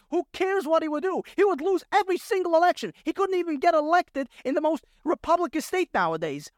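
real exasperation, pitched a bit high; frustrated rant. Real, not acted. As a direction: argue it like you are fed up. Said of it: "getting kinda frustrated here because it's so irritating".

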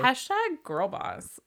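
slow, drawn-out mock Valley girl. Joking about marketing herself to co-hosts, mock Valley girl. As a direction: play the Valley girl, stretching it out. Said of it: "her Valley girl voice".

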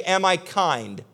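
slow earnest question. Retold or imitated. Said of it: "Go to that person and say".

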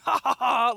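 mock laugh. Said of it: "He's just laughing".

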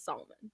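salmon said "SAHL-mun" with the l sounded; Alyssa's pronunciation. Retold or imitated. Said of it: "My friend Alyssa says salmon".

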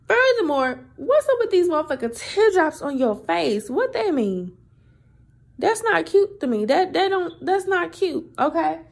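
high indignant rant. Real, not acted. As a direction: tell him off, incredulous. Scolding the man with teardrops.

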